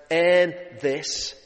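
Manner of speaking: a hint of a dying soldier, urging; dying soldier's plea. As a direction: press the word earn, lightly voiced. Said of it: "but he says".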